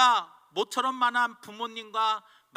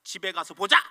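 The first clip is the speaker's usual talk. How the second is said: louder closing threat; father's threat; 4 dB louder, faster than usual. Retold or imitated. Father threatens his son, louder at the end. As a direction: warn him he'll get it at home. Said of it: "한마디를 더 합니다".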